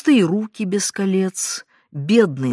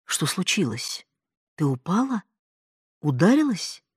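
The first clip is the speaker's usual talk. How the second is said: frightened. A narrator's reading. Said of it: "спросил испуганно".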